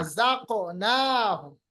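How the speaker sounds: रज़ाक़नाहुम said slowly, syllable by syllable; careful recitation. Shown as a demonstration. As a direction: spell out razaqnahum slowly. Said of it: "रज़क नहीं". (धीमा साफ़ उच्चारण)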